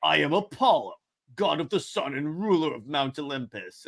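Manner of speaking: lightly voiced sun god; a hint of a grand, mock-divine proclamation; Apollo. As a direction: announce yourself in a mild god voice. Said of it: "This is my god voice".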